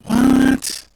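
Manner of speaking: high startled what; sudden shocked question; surprised. Real, not acted. Learns stream sounds garbled.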